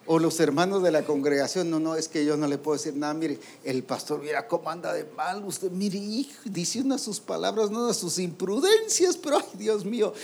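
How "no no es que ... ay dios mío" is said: acted complaint climbing higher and higher; mounting mock exasperation; exasperated church gossip. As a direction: voice a scandalised congregant, building to high-pitched dismay. Acting out congregation members complaining about pastor.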